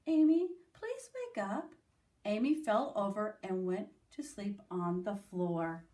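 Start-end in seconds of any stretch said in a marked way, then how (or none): 0.1-1.7 very nicely. A narrator's reading. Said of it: "said very nicely".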